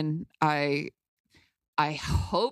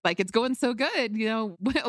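coy and cute; 6 semitones higher than usual. Retold or imitated. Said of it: "coy and cute".

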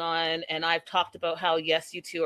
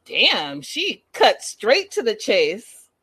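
amused exclamation; 2 semitones higher, 6 dB louder, much slower than usual. Retold or imitated. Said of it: "I was like".

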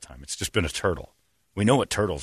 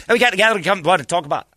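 high mock-Scots jabber; strong Scottish accent; 8 semitones higher, 3 dB louder, much faster than usual. Mimicking Scots answering him, garbled thick Scottish accent. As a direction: imitate a thick Scottish gabble. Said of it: "that accent got so strong".

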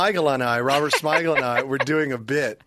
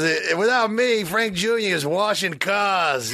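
Frank Sinatra; 3 semitones higher, slower than usual. Retold or imitated. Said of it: "he's doing the whole Frank".

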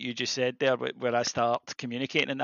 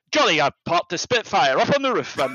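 higher, plummy posh English; jolly hockey sticks posh; 5 semitones higher, 5 dB louder than usual. Retold or imitated. In-laws chatting breezily, in posh English voice. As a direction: breeze through it like upper-class gentry. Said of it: "very jolly hockey sticks".

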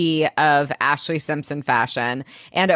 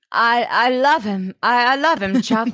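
higher, mock-emotional stammer; hammed-up tearful confession; 6 semitones higher, 3 dB louder than usual. Elizabeth confessing love for Jack to Chuck, hammed-up and higher.

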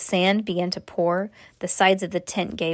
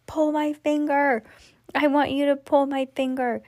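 mummy voice; 7 semitones higher than usual. Acted.

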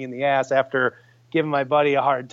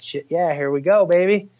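hyped up; 4 semitones higher, 5 dB louder than usual. Retold or imitated. Buck appears, hunter hyped.

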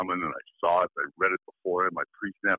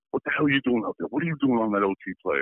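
retold furious chewing-out, higher and fast; angry coach; 4 semitones higher, faster than usual. Coach chewing out his linebacker on the bench, mock angry yell. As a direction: bark at the rookie like an angry coach. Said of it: "spitting and steaming".

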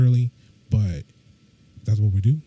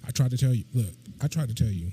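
talking while banging the desk. Real, not acted. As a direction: pound the desk as you speak. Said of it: "Quit hitting the desk".

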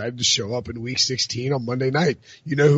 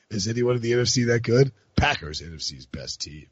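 spoken-word voice. Acted. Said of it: "Can I read some Prisco tweets in that voice?".

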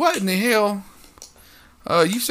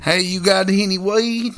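Matthew McConaughey impression; 2 semitones higher, slower than usual. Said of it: "Shout out Matthew McConaughey".

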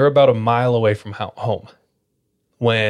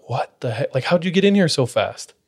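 baffled question leaping up higher; mock disbelief, pitch jumping on the question; retold bafflement; 4 semitones higher than usual. Cousins asking D how he got inside, retold bafflement.

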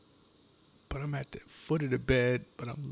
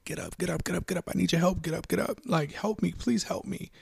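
urgent pleading; 2 semitones higher, 4 dB louder than usual. Acted. Begging sleeping wife for help.

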